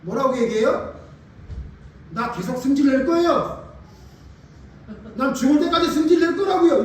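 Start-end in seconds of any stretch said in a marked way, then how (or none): 2.1-6.8 high, loud stubborn outburst; defiant, angry Jonah. Acted. Preacher as the prophet refusing to stop being angry, defiant. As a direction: dig in and shout back at God. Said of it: "이렇게 얘기하는 거예요".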